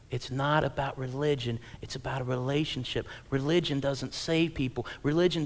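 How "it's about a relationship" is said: normal talking voice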